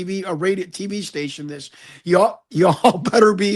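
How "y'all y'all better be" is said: a light, laughing Southern drawl on y'all; playful hint of a Southern accent, slower; half-joking Southern accent with a laugh. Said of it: "I'm using my Southern college ba-, accent".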